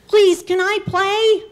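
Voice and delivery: put-on high, loud begging child; eager high-pitched plea; pleading little girl. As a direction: beg the big brothers to let you in.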